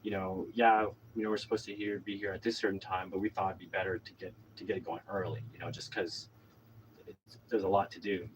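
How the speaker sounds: soft, low, apologetic politeness; retold placating niceness; extra nice. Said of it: "extra nice and be like".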